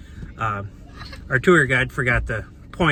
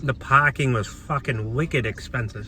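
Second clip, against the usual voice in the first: put-on Boston accent. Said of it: "You have to say it in Boston accent".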